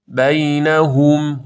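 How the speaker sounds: slow chanted بینهم with rounded "hum"; drawn-out "baynahum" for بینهم; model recitation. Shown as a demonstration. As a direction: stretch بینهم, lips pursed at the end.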